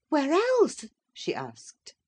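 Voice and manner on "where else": bright retort. A narrator's reading. Wife retorts.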